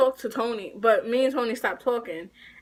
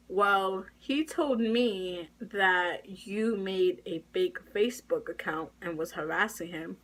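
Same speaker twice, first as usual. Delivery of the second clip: softer, measured official's voice; calm; 3 semitones lower, 6 dB quieter than usual. Retold or imitated. School official telling a student about the accusation, calm. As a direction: relay the accusation evenly and unhurriedly, volume down. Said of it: "he was calm, and he was like".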